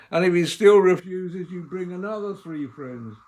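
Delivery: building emphasis. Acted. Preacher builds a repeated step.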